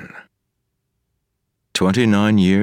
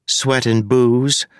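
slow, relished; 6 semitones higher, slower than usual. A narrator's reading. Wayne lecturing Marcy on proper smells, slowly. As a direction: savor each word, slow.

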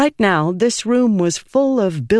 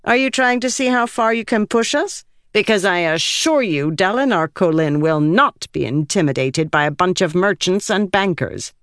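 higher, defiant noblewoman; 4 semitones higher than usual. Acted. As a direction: push back hard, proud and offended. Ialai voiced, defiant in dialogue.

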